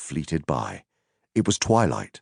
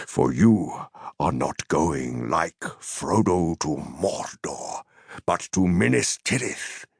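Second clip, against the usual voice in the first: grave Gandalf. Acted.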